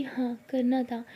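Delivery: slow nervous whisper. Acted. Sara whispering nervously to Jaya. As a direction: barely breathe the words out.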